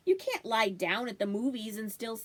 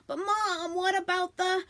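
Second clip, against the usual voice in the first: put-on excited boy's protest, pitched higher; eager interruption; 8 semitones higher, 4 dB louder than usual. Son pleading with Mom about the bundle, excited. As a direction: cut in eagerly before being stopped. Boy interrupting mother in chaos.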